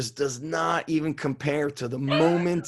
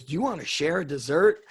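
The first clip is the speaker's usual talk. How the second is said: laughing retold question; 3 semitones higher, faster than usual. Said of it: "He goes".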